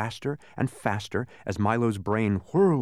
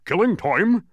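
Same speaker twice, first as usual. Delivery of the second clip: louder, higher outraged cry; roared; 7 semitones higher, 7 dB louder, slower than usual. A narrator's reading. Watchdog roaring at Milo, outraged. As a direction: roar it in disbelief. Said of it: "roared the dog".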